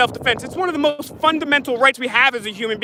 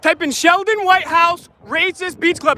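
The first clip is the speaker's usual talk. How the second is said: high, raised call to the crowd; calling from far away; 4 semitones higher than usual. Real, not acted. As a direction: call it out to everyone.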